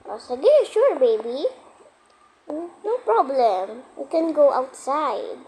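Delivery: lightly voiced mom, lilting and drawn out; pretend mommy. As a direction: indulge the baby like a play mommy, slowing toward the end. Mother granting baby's request in play. (kunwaring nanay na malambing)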